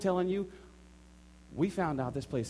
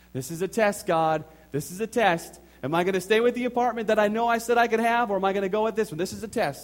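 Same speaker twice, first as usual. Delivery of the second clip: louder, higher, worked up, arguing with himself; excited cry; 5 semitones higher, 6 dB louder than usual. Retold or imitated. A man tested by God, crying out excitedly. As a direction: hammer the word test like a revelation. Retold inner struggle with God.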